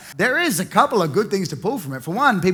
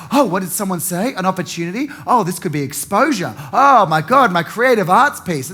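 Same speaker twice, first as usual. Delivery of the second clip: excited artist. Retold or imitated. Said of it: "We're like".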